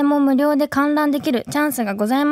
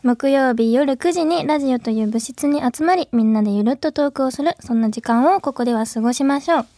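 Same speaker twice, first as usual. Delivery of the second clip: radio host intro; 3 semitones higher than usual. Acted. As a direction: announce the show to listeners. Opens the radio show.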